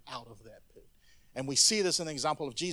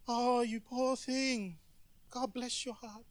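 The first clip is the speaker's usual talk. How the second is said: mock pity; 7 semitones higher, 5 dB quieter, slower than usual. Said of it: "Compassion is different from pity".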